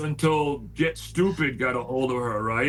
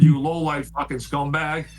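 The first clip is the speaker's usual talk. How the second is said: indignant retold insult, a bit louder; flipped out; 4 dB louder than usual. Host retelling how he flipped out on a man, indignant. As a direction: spit out the retold telling-off with some force. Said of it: "now I flipped out".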